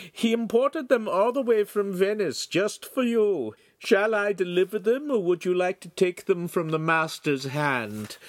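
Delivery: high nasal salesman's voice; high-pitched nasal. A narrator's reading. Eager salesman to his excellency about new spectacles, high-pitched nasal voice. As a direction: pitch it high, through the nose. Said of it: "said in his high-pitched nasal voice".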